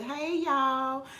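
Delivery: drawn-out Southern greeting; demonstrating a Southern hello; Southern accent. Shown as a demonstration. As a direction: say it with a Southern drawl. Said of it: "That's not Florida accent".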